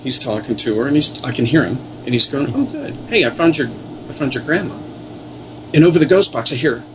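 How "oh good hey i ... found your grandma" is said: much higher, bright "Oh, good"; excited reassurance. Retold or imitated. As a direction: cheer her up with the news. Gary cheerfully reassuring the girl.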